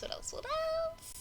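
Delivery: soft whisper, thinking aloud; whispered to herself. Real, not acted. Searching her memory, a private whisper to herself. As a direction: breathe it out while searching memory.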